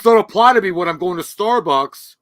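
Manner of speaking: loud, high entitled complainer; hammed-up entitled outburst; mock Karen. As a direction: parody an outraged Karen. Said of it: "bitch-ass fucking Neil Karen".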